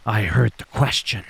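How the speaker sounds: flat, lightly voiced stoic enforcer; a half-hearted cold reply; terrible impression. Solo answering Jay, a mild put-on tough voice. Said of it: "That was a terrible impre".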